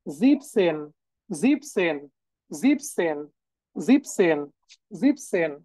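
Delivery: "জিপসেন" said zip-sen, shortened from ziben; German pronunciation demo. Shown as a demonstration. Teacher drills the irregular German seventeen for learners, German pronunciation demo. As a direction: drill "জিপসেন" as two clear syllables, pausing after each take. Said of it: "এটাও কিন্তু different".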